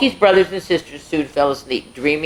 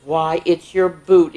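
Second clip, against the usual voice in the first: surprised mother; slower than usual. Acted. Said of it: "exclaimed Pokey's mother".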